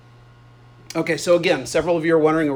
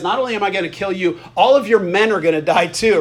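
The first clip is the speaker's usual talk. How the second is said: mildly acted one-upping taunt; trash-talk comeback; 3 dB louder than usual. David giving the threat right back to Goliath, taunting. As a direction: push the threat back, a little louder as it builds. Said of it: "David gives it right back to him".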